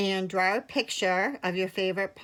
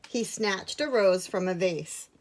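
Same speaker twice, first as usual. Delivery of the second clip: measured picture-book narration with long pauses; clear, unhurried storytelling; story reading. A narrator's reading. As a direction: read it to young children. Reads a picture book to children.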